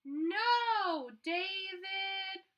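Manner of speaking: high, loud scolding mother's cry; fed-up mom yelling at her son. Acted. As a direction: call it out like an exasperated mom. Mom scolding in picture book.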